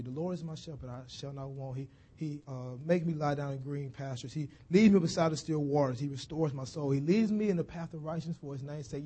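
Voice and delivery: quiet, hushed reading of the psalm; soft recitation. Acted. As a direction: recite it gently, almost to yourself. Magician recites Psalm 23 softly.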